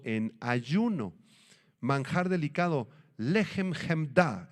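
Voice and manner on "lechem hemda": "lechem hemda" said slowly with guttural kh sounds; slow, throaty Hebrew "lechem hemda"; Hebrew pronunciation. Shown as a demonstration. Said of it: "en hebreo".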